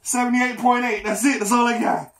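strained after effort. Real, not acted. Final push-up attempt, straining.

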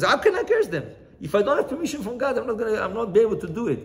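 high-pitched, helpless protest; acted-out objection, pitched high. Balaam acted, protesting to Balak.

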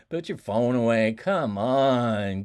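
loud, firm command to put the phone away; stern order. Shown as a demonstration. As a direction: bark it at a distracted student. Teacher scolding phone users.

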